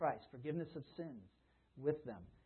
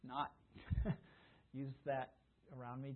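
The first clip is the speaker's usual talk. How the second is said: gentle request; 7 dB quieter than usual. Retold or imitated. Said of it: "gently at times".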